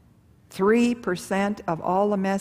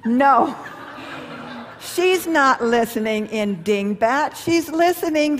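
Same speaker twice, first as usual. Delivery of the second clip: laughing; 4 semitones higher than usual. Real, not acted. Laughing at his own joke.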